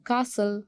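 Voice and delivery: "Castle" with no T sound; silent T. Shown as a demonstration. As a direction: say "Castle" as kas-ul. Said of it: "T is silent". ("Castle" में T silent)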